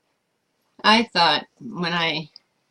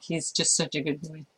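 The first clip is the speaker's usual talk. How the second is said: sweet reply; 2 semitones lower, 8 dB quieter than usual. Retold or imitated. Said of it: "my response to anybody".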